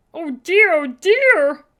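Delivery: high, loud worried elf voice; fretting elf. A narrator's reading. Nervous elf Mister Pudding fretting over Sophie, high and loud. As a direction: flap about like a nervous little elf.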